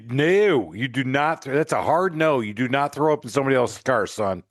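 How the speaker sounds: mock scolding. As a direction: playfully tell him off, hammed-up. Host mock scolds guest.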